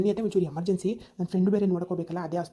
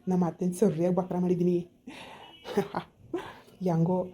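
a scheming little laugh under the breath; sly villain chuckle. Acted. Son-in-law gloating to himself about fooling his mother-in-law, sly chuckle. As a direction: chuckle like a crook whose plan worked.

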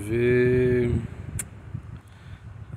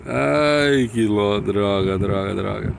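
frustrated cursing; 5 dB louder, slower than usual. Real, not acted. Play fails.

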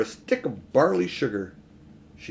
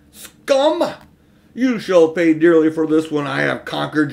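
triumphant witch; 3 semitones higher, 8 dB louder than usual. A narrator's reading. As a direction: ring it out like a great bell. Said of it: "clear like a great bell, almost happy".

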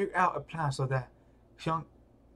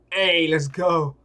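call out; 8 dB louder, slower than usual. Acted. Calling out to start fight.

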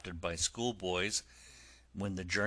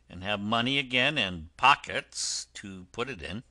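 a hint of smug Toad, louder at first; Toad's scheming thought; 3 dB louder than usual. Toad privately scheming about repaying the driver, smug. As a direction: plot it smugly to yourself. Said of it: "But he thought".

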